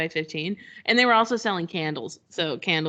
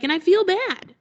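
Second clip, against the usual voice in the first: fretful friend; 11 semitones higher, 3 dB louder than usual. Retold or imitated. Friend confesses guilt.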